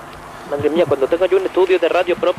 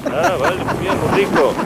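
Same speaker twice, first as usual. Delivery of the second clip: high-pitched comic voice; 10 semitones higher than usual. Acted. Reporter reacts in high voice.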